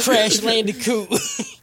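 drawn-out pun. Pretend. Repeating the pun to co-hosts, playfully drawn out.

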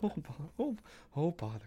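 droop every word like a sad donkey; Eeyore voice. Acted. Playing Eeyore voice.

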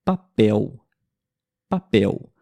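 papel with the final L said as a U, papéu. Shown as a demonstration. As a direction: model papel slowly with an open U ending. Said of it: "Temos a palavra, por exemplo".

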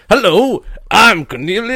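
a hint of a bartender character; Cornelius the bartender. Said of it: "Where's, where's Cornelius?".

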